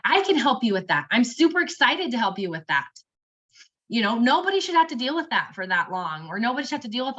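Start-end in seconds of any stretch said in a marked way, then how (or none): 0.0-2.9 reassuring hopeful. Shown as a demonstration. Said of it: "Give that very reassuring, hopeful statement".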